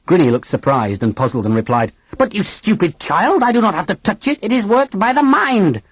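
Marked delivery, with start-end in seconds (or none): 2.2-5.8 put-on high, stiff alien old lady; robot aunt voice. A narrator's reading. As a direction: speak like a cold machine aunt.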